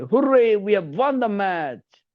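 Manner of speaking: high, slow victory cheer; cheering win. Shown as a demonstration. Teacher cheering a match win, high and drawn out. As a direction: celebrate winning the match. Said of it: "आनंद जताने के लिए".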